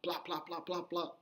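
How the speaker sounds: soft, rhythmic mock smacks; quick run of imitated hits, kept soft; imitated belt licks. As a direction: tap out the blows with your voice. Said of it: "He was like".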